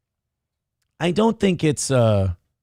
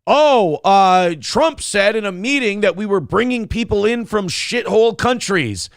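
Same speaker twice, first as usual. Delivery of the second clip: mock outraged media; 5 semitones higher than usual. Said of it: "people said".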